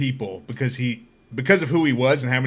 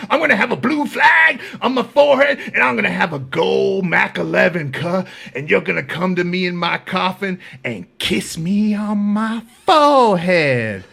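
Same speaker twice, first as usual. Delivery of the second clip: mock proud rant; 3 semitones higher, 4 dB louder than usual. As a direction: proclaim it to the tier, stretching the last word. Continues the inmate's proud rant.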